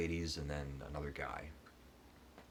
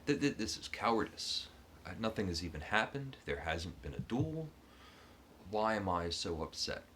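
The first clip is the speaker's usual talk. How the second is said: nervous self-talk; 3 semitones higher than usual. Retold or imitated. Panicking hero talks to himself.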